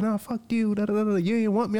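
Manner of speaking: high-pitched mock tirade; retold angry rant. Woman going off on him after graduation, mock outrage.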